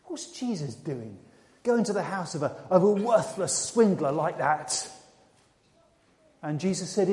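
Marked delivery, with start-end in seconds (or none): 0.0-4.9 slow, disapproving grumble; muted, drawn-out disgruntled complaint; grumbling. Acted. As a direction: grumble it low at first, drawing out the scorn.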